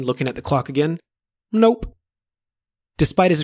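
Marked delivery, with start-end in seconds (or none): 1.5-1.9 playful demon voice. Acted. Finnegan teasing answer.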